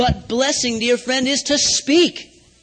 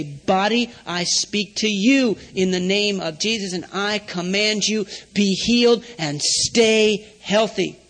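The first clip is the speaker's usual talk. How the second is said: commanding the body; 3 semitones lower, slower than usual. Shown as a demonstration. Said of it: "And then you say".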